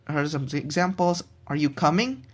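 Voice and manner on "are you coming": coming rises at the end; rising question. Shown as a demonstration. Student demonstrating a rising yes-or-no question. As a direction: lift the pitch on coming. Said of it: "for a yes or no question".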